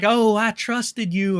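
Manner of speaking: put-on a light, slow redneck accent on the quote; mock April in a lightly drawled redneck accent. Streamer quoting April in a light mock redneck accent. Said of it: "I gave her the redneck accent".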